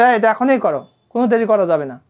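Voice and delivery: commanding teacher. Acted. Teacher telling a student to do it immediately, lightly acted command. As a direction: give a brisk order, as a teacher might. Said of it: "শিক্ষক বলছে".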